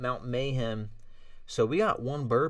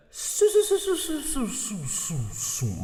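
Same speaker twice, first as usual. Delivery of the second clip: stuck stutter; 14 semitones higher, 5 dB louder than usual. Pretend.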